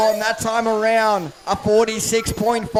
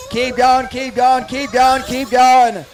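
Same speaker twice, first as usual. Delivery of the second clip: urging on; 3 semitones higher, 4 dB louder, slower than usual. Real, not acted. Urging driver to the line.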